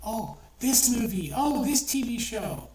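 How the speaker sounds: slow, mock complaining sigh; mock whining complaint. Mimicking fans griping about shows, slow mock whine. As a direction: drag it out like a whiny viewer. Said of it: "you'll complain".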